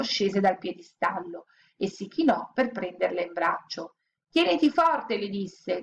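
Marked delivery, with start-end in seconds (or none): 4.3-5.2 angel voice. A narrator's reading. Angel speaks.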